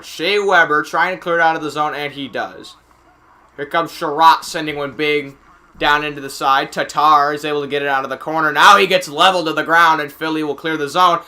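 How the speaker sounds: steady live hockey commentary; play-by-play. Real, not acted. Announcer tracking the puck for viewers, play-by-play. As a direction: follow the puck as it moves.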